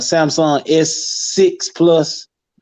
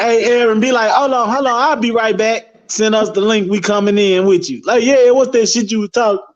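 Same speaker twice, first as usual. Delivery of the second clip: hyped-up friends; 5 semitones higher than usual. Retold or imitated.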